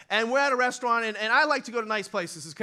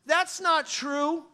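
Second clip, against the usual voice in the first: God correcting; 7 semitones higher, 5 dB louder, much slower than usual. Retold or imitated. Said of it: "God just goes".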